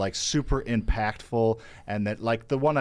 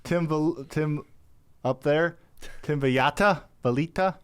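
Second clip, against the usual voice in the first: excited; 7 semitones higher, slower than usual. Real, not acted. Excited shout-out to friend.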